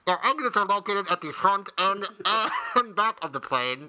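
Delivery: mock safety announcement, slowing; flight attendant. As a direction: announce the exits like cabin crew. Imitates airline safety announcement.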